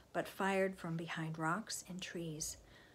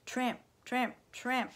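loud, higher, rhythmic footfalls; marching up close; 5 semitones higher, 4 dB louder, slower than usual. A narrator's reading. Narrator imitating soldiers now arriving, loud and rhythmic. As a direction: punch each word like boots right beside you.

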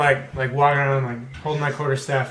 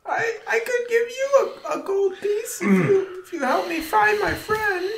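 put-on high, frail old beggar voice; old blind man voice. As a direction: play a lost, helpless old blind man. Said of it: "the whole blind guy thing".

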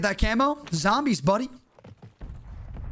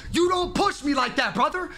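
higher, yelled "You don't push me like that" at the enemy; shouted taunt; 5 semitones higher than usual. Real, not acted. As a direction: bark the taunt out at the guy who pushed.

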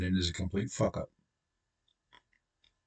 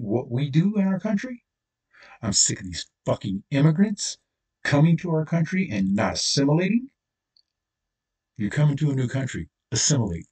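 building anger; 3 semitones higher, 3 dB louder than usual. Real, not acted. Ranting to viewers about immigrants, growing angry and loud. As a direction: let the outrage climb line by line until it boils over. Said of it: "I'm upset".

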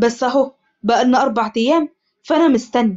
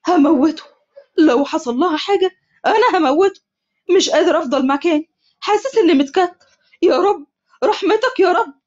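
angry vow; 5 semitones higher than usual. Acted. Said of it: "عمر وهو قاعد".

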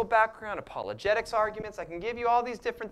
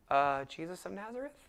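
timid; 5 dB quieter than usual. Retold or imitated. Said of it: "asked timidly at this point".

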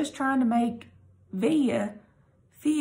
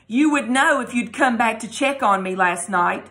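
a louder, spiteful jab at mom; 5 dB louder than usual. Acted. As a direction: throw it back at her with spite. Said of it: "I said spitefully".

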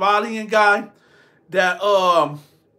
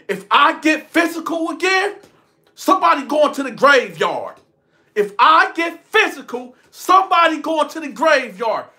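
threatening shout; 6 semitones higher than usual. Retold or imitated. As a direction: bark the warning like you mean to fight. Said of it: "I said it just like this, word for word".

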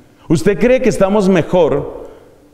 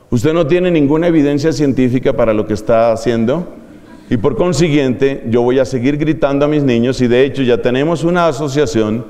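lower, smug know-it-all tone; mock pompous reply; 6 semitones lower than usual. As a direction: play the smug expert lecturing the lady. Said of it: "Entonces yo le digo a esa señora". (tono burlón de sabelotodo, más grave)

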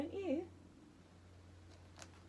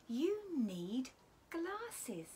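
animals crying out; 3 semitones higher, much slower than usual. Acted. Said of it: "all the other animals cried".

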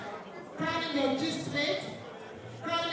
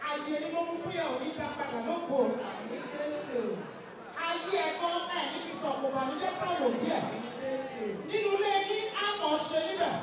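rapid prayer; much faster than usual. Acted. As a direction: rattle off the prayer to the parents. Rapid Yoruba blessing to parents.

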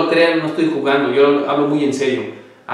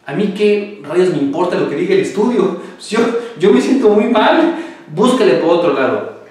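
indignant patient; 4 semitones higher than usual. Retold or imitated. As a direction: protest against the doctor. Imita al paciente que protesta. (paciente indignado, más agudo y fuerte)

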